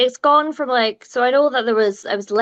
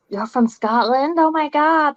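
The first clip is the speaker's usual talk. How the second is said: lightly imitated American accent, amazed; a hint of a mock American accent; bad American accent; 5 semitones higher than usual. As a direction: mimic a gushing American, badly. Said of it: "that's my bad accent".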